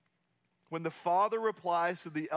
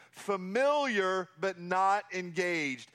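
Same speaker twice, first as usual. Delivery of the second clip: "Familiar, but not engaged." slowed, stress on "not"; slow emphasis; slower than usual. Shown as a demonstration. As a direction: drive the point home slowly. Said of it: "He's familiar, but not engaged".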